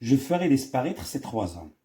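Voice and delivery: slow, deliberate reading of the line; reading the quote. Shown as a demonstration. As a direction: read the sentence out slowly. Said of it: "La phrase". (قراءة الجملة ببطء)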